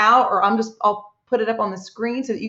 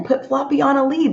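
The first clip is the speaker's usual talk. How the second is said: higher and a bit brighter, acting out the family; eager retelling; 4 semitones higher than usual. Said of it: "They're saying".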